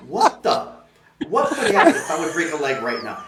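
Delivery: imitating an outraged celebrity, half-laughing; retold yelling. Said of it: "He was yelling at me".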